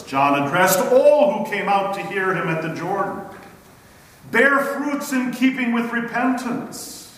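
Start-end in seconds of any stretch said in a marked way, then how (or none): 4.3-7.1 higher-pitched, insistent demand. A narrator's reading. John addressing all at the Jordan, demanding. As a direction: insist on it as a stern command. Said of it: "he demanded".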